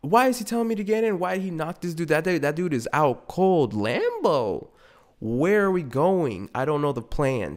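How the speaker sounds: high, fast frantic rambling; panicking girlfriend. Retold or imitated. Girlfriend freaking out in the Lambo, high frantic questions. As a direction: spiral through questions. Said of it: "she'd be like".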